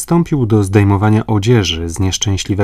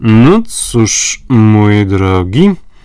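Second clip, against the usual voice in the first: very slow, solemn, grave with a sarcastic edge; 5 dB louder than usual. The major McNabs addresses Paganel, who has just read the letter, gravely and sarcastically. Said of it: "rzekł z powagą i przekąsem McNabs".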